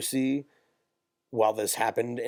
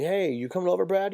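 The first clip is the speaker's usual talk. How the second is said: mock friend voice; 9 semitones higher than usual. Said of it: "Like, a friend or something".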